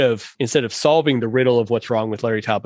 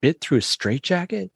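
put-on Cockney accent; 6 semitones higher than usual. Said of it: "the inspector has these great lines".

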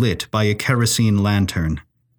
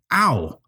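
pained whine; whiny ow; 3 semitones higher than usual. Acted. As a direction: yelp of a stubbed toe. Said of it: "he whined".

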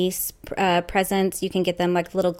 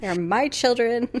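haughty English accent; 4 semitones higher, slower than usual. Shown as a demonstration. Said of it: "You get this haughty, like, almost English accent".

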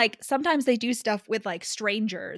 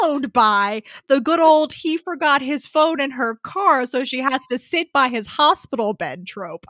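slow, higher-pitched mock grandeur; mock-knowing proclamation; 3 semitones higher, 6 dB louder than usual. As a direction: reel off the trope with hammed-up relish. Mocking a clichéd plot trope.

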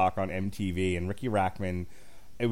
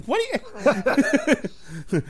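higher, slow jeering; mock hostile comic; 13 semitones higher, 4 dB louder, much slower than usual. Comic's taunting of the crowd, hammed up. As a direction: sneer at the crowd. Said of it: "He's like".

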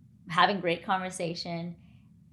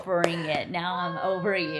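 inner defiance. Retold or imitated. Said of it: "In my head".

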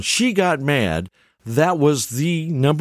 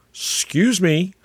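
drawn-out, higher-pitched mock offence; mock indignation; 6 semitones higher, slower than usual. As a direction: act affronted at the accusation, stretching it out. Acting daughters' denial of blame.

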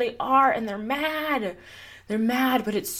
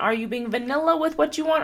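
higher and louder, a teasing lilt on vanilla; 5 semitones higher, 4 dB louder than usual. Shown as a demonstration. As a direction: poke fun at playing it safe. Mocking the vanilla choice.

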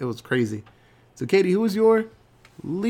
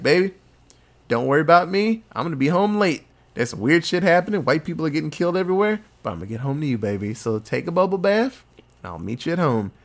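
husband on the phone; faster than usual. Retold or imitated.

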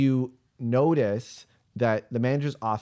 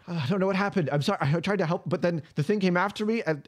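high, apologetic, shaken voice; distraught Jeremy; 8 semitones higher, faster than usual. Acted. Jeremy apologising to the group, high and distraught. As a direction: plead that you tried to help. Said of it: "you see Jeremy running up".

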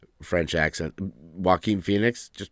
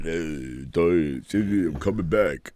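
lightly voiced comeback character; much slower than usual. Voicing Clubber Lang's kid.

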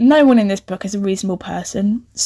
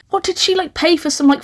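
ordinary delivery

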